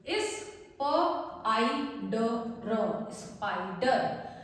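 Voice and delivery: इस, प, आई, ड, र said as separate slow sounds, then स्पाइडर; slow sound-by-sound blending. Shown as a demonstration. Teacher blending sounds for students, slow and segmented. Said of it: "अब पढ़िए इसको".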